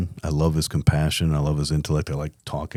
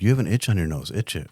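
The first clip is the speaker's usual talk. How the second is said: guide's calm instruction; faster than usual. Retold or imitated. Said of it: "And he'd be like".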